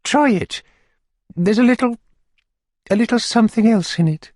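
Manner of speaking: high coy matron voice; Missus Corney. Acted. Matron urging the beadle to taste, high and coy. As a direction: lift the pitch high and coax him.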